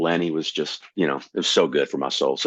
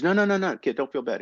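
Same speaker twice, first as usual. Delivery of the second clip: high-pitched hasty reassurance, imitating an older comic; quick, high "no, no" easing down; retold reassurance; 10 semitones higher than usual. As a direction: wave off the hurt in a higher voice. Headliner reassuring a stung young comic.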